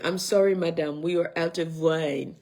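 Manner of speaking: a light mock Parisian accent on a waiter's apology; hammed-up Parisian accent, barely there. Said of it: "In my Parisian accent".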